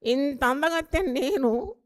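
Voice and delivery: slow, drawn-out boast with a rise on "నేను"; mock vain wife. Made-up wife boasting of her beauty, slow and vain. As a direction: stretch it out like a proud beauty. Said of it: "అంత రంగులు పూసుకొని వచ్చింది".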